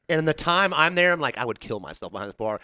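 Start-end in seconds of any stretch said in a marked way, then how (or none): 1.4-2.6 low, quiet gloomy remark; dark joke muttered low; deadpan aside. Retold or imitated. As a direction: drop it down, dry and soft. Deadpan aside about working there.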